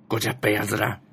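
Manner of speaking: ごじゃっぺやずら read in Ibaraki dialect, ずら not やつら. Shown as a demonstration. Reading out her tweet, the Ibaraki dialect ごじゃっぺやずら. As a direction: Ibaraki dialect phrase said as the locals say it. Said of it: "茨城の方言なんですよ".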